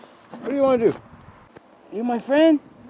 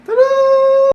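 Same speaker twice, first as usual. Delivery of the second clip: ta-da; 9 dB louder than usual. Real, not acted. Presenting glass piece.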